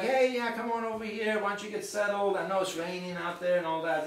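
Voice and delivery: easygoing imitation of a kind host; nice, welcoming. Meeting owner to drenched facilitator, kindly welcoming. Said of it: "was really nice to me".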